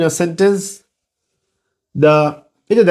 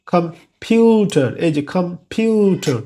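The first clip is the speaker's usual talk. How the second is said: "কম্পিউটার" slowly, PYU stretched with a puff on P; stressed aspirated syllable; slower than usual. Shown as a demonstration. Teacher showing a stressed middle syllable, "কম্পিউটার" with long aspirated PYU. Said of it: "stress syllable".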